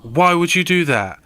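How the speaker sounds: hammed-up friend's outrage; salty protest. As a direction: imitate a friend's salty complaint. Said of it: "he gets so salty".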